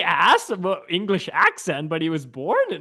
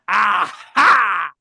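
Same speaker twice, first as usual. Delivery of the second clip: triumphant aha; 2 semitones higher, 5 dB louder than usual. Real, not acted. Triumph at proving a point.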